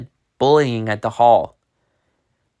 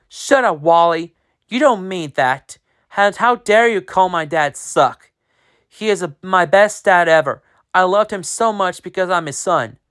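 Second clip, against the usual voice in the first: angry retort; 6 semitones higher than usual. Acted. Diego defending dad.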